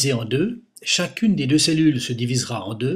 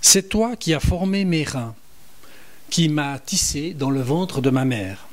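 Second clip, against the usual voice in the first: psalm reading; 2 semitones higher than usual. Shown as a demonstration. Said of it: "Je vous en lis quelques extraits".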